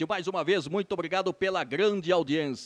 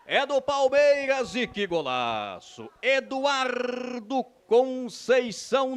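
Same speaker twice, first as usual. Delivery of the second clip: explosive goal commentary; 6 semitones higher, 10 dB louder than usual. Real, not acted.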